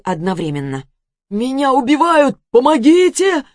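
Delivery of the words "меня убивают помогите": high, loud panicked yell for help; desperate cry for help. Acted. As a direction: scream for rescue from the floor. Victim calling for help. (отчаянный крик о помощи)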